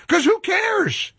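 slow, high, sing-song shrug; dismissive. Real, not acted. Host brushing off listeners' review demands, dismissive. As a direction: toss it away like it doesn't matter.

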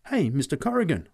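high, loud call of astonishment; astonished. A narrator's reading. Boy sees no milk in the cans, astonished. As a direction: call out in amazement. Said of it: "I said in astonishment".

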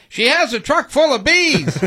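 alarmed high shout. Retold or imitated. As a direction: yell it in a panic. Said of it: "deputies were heard on video shouting".

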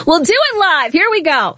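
a hint of the angry TV host; half-hearted cable news host echo; lighter Bill O'Reilly echo. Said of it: "that Bill O'Reilly clip where he's like".

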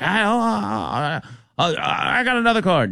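high halting mock Indian accent; stammering Indian accent. Drunk passenger fumbling cards, stammering Indian accent. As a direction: stumble for another card in an Indian accent. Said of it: "Indian accent".

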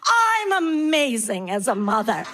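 smug mom. Retold or imitated. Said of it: "you're like".

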